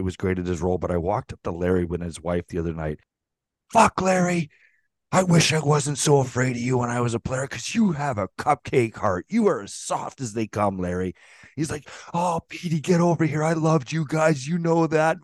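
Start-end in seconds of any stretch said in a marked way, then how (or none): 3.7-11.1 affectionate teasing. Retold or imitated. Teasing old GM at event. 12.1-15.2 put-on warm old GM. Voicing Larry's warm reply.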